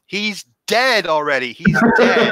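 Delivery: high, loud, drawn-out protest; re-enacted exasperated yell. Drenched puppeteer under the set protesting to director, yelling. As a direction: yell it up to someone who won't stop. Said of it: "I actually yelled".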